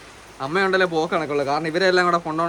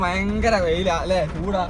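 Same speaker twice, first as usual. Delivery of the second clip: complaining about heat; 2 semitones higher, much slower than usual. Retold or imitated. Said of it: "മഴ ഇല്ലാത്തവൻ പറയും".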